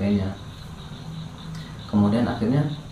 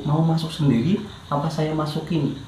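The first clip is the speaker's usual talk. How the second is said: mild mock menace; 4 semitones higher than usual. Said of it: "saya ada teriakan itu".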